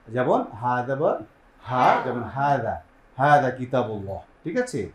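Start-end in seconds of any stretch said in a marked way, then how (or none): 0.5-4.2 হাদা with a light, open h; no squeeze on the হা of হাদা; easy ha. Shown as a demonstration. Teacher giving the opposite example, হাদা unpressed. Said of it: "তার বিপরীতে হচ্ছে হা".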